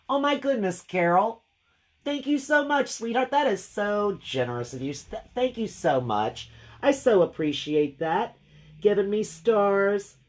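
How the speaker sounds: high, bright-eyed gushing thank you; delighted thanks. Real, not acted. Painter gushing thanks to viewer Carol, high and delighted. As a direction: gush over the gift of stars.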